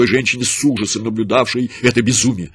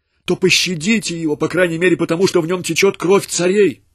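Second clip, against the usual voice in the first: much higher, urgent entreaty; pleading; 7 semitones higher than usual. A narrator's reading. Mother begging the soldiers to spare her son, high and urgent. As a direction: plead with all you have. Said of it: "умоляла она".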